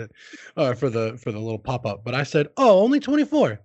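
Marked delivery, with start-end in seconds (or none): 2.6-3.6 high, louder "oh" falling away; retold letdown reaction. Streamer re-enacting his reaction to a small donation, retold letdown. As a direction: re-enact the underwhelmed surprise. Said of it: "I said it just like that".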